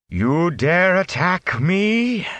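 slow towering indignant roar; roaring fury. Acted. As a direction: thunder down on the insects below. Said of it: "Moraine's voice roared like a whirlwind".

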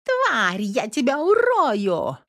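yelling threat. A narrator's reading. Girl on the balcony out-yelling neighbours, furious. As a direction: scream a threat down at the yard. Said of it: "переорала всех негодующих".

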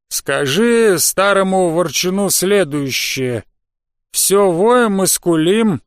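slow, strange creature voice; drawn-out words from a slimy creature; tentacle alien. Acted. Slug character voiced slowly.

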